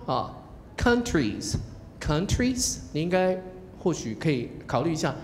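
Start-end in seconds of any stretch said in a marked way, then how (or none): 0.8-2.8 very slow "countries" rising, stress on COUN; stressed question rise. Shown as a demonstration. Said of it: "还是第一重音".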